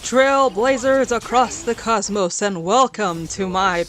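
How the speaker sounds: slow, booming showman welcome; grand announcer voice. Acted. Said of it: "That was my grand announcer voice".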